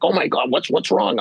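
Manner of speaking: mock alarm, pitched well up; retold panic. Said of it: "panicking, like".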